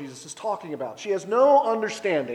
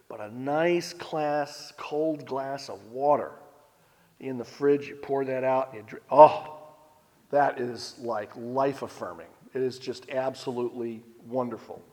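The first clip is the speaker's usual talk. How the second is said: savoring relish; 3 semitones lower, 3 dB quieter than usual. Acted. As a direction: linger on it like a cool sip. Savoring a cold drink.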